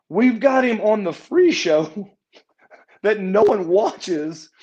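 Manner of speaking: retold incredulous protest. Retold complaint to the booker.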